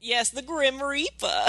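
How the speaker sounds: mock Cockney-Australian accent. Podcaster voicing a crocodile villain, hammed-up Cockney-Australian. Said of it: "why Mary's doing that accent".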